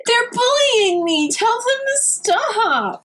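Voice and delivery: put-on high, slow, childish whine; hammed-up tattling to her husband; mock whiny wife. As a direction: pout it out like a spoiled wife. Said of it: "she just goes wide-eyed and teary-eyed".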